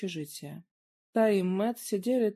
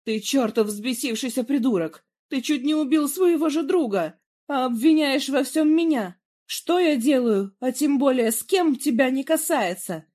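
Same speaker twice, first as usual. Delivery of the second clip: loud, higher furious yelling; angry shout; 6 semitones higher, 7 dB louder than usual. A narrator's reading. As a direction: hurl the insults at him. Heated quarrel, Daniela continues.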